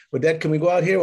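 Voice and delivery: put-on high eager kid voice; kid asking dad. Boy asking his father to go out, eager. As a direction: plead like a hopeful boy. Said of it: "my dad didn't".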